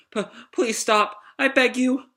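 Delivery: high, fearful stammering plea; Pino. Acted. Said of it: "shaking in fear".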